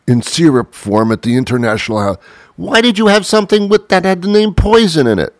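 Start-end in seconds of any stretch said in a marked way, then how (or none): 2.6-5.3 much higher, baffled questioning voice; incredulous other voice. Pretend. Friend baffled at poison berry choice, high and incredulous. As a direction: ask why, amazed someone would eat poison.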